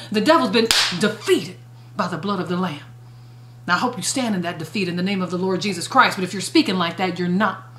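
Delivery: low, soft earnest preaching; softened preaching. Real, not acted. Sermon drops to intimate register.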